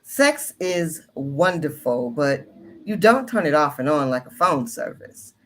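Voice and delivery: expressive reading voice, lifted in pitch; monologue book read aloud. Acted. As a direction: read it out with deliberate, rising-and-falling emphasis. Reads monologue introduction aloud.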